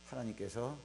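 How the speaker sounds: usual speaking voice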